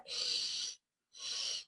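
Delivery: whispered slushy sh hiss. Shown as a demonstration. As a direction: lateral sh sound hissed out. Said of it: "it's a lateral S".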